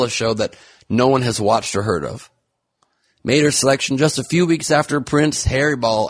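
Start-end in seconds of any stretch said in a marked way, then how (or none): 3.2-6.1 high, gushing gossip voice; mock excited gossip. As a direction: gush like a tabloid host.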